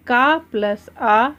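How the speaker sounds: का प्लस आ spelled out slowly, each part said clearly; teacher slowly joins का and आ; slow syllable build-up. Shown as a demonstration. Teacher showing children how का joins आ, slowly. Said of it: "इनका रूप पूरा होता है".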